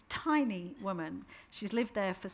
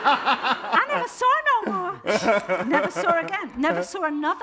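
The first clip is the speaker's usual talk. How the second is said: laughing; 8 semitones higher, 11 dB louder than usual. Real, not acted. Laughing through punchline.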